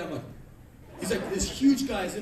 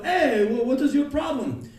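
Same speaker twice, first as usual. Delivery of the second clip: angry cabbie; 8 semitones higher, 10 dB louder than usual. Retold or imitated. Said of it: "rolled the window".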